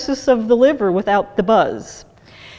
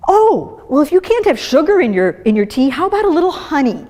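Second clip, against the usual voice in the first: higher, quick, sweetly helpful mock voice; well-meaning friend; 5 semitones higher than usual. Well-meaning people suggesting honey, mock sweet and chirpy. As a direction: lightly mimic a helpful friend. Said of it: "well-meaning people will say".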